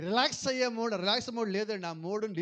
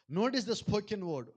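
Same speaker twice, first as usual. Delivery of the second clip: very slow emphasis; much slower than usual. Real, not acted. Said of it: "ఆ పలకబడిన మాటను గమనించండి".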